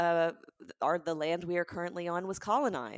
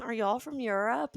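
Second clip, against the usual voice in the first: lightly voiced waitress, higher pitch; a hint of the waitress, pitched up; imitated waitress; 6 semitones higher than usual. Waitress explaining her question to the mother, lightly imitated, higher. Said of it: "She goes".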